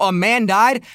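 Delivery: rising, disbelieving echo; incredulous question. Retold or imitated. Mocking the article's wording, incredulous. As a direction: throw the phrase back in disbelief. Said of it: "Bitch! Oh, oh".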